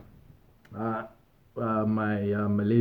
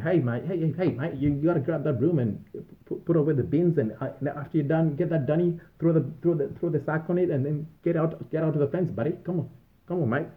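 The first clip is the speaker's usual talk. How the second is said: high-pitched broad Aussie boss impression; bark-free, rambling Aussie orders in a raised pitch; Aussie supervisor accent; 6 semitones higher than usual. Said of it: "got a grasp of the Aussie accent".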